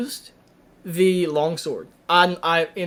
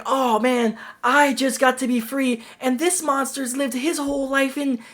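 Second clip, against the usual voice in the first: mocking a dreamy kid, much higher; high, earnest mock-teen voice, slowing down; whiny kid; 8 semitones higher than usual. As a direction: ham up a naive boy's lament. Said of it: "this kid who's like".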